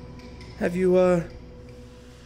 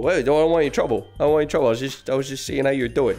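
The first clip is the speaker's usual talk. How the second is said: fast, nervous babbling; nervous backpedal; much faster than usual. Acted. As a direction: talk fast to get out of trouble. Scared of gang member.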